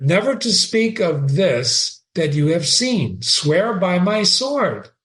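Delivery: reading Shakespeare aloud with feeling; dramatic reading. Acted. Teacher reading Horatio to the class, dramatic reading. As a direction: give Horatio's line a lively read. Reads Hamlet's line.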